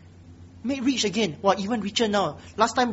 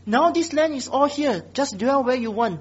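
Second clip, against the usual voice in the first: sarcastic permission with rising pitch. Acted. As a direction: play the king's sarcastic offer. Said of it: "very sarcastic".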